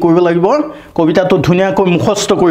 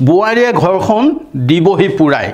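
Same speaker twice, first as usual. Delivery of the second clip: poem reading; 3 semitones higher than usual. Shown as a demonstration. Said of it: "পাঠ কৰি দিছোঁ".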